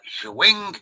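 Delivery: quick mock exclamation, high and punchy; imitated catchphrase. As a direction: mimic a sketch-comedy catchphrase, pitched right up. Imitating Wayne's World catchphrase.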